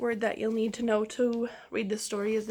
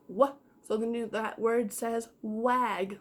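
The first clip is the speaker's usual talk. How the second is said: sounding out; slower than usual. Shown as a demonstration. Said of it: "W says".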